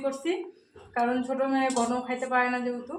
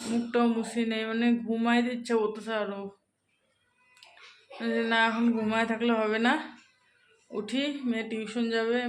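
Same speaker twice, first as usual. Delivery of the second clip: just woken up. Real, not acted. Telling viewers she just woke up, groggy. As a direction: still half asleep, dragging the words. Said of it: "এক্ষুনি ঘুম থেকে উঠলাম".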